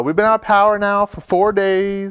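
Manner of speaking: a light southern twang for mom; imitating southern accent. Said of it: "with a southern accent".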